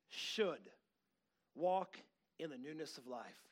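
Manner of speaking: measured reading that builds, then drops; emphatic scripture reading. Acted. Preacher reading favorite chapter to congregation, emphatic scripture reading. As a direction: build to a slow, drawn-out emphasis.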